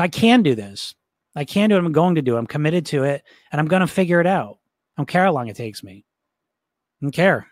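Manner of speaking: firm, resolute self-talk; very certain. Shown as a demonstration. Coach standing up to the bully, firm and certain. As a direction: stand your ground with conviction. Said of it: "I'm talking very certain".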